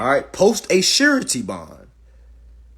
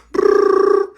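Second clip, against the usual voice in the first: phone ring imitation; 9 dB louder than usual. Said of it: "they're gonna call you and say".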